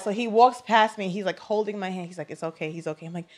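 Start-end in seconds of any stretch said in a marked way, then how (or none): 2.3-3.0 soft, hushed comfort; retold reassurance. Husband holding his wife's hand in surgery, soft retold reassurance. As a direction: imitate gently calming someone down.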